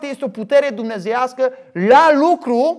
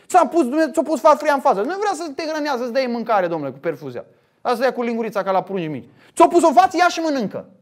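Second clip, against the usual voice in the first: sarcastic, higher mock voice of people's view; higher sarcastic parody of a spoon-feeding God; 4 semitones higher than usual. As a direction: parody the lazy believer's idea, pitched up. Mocking the spoon-fed view of God.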